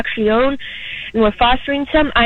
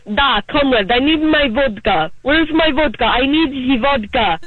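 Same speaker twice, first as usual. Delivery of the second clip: put-on Russian accent. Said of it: "I can do a Russian one".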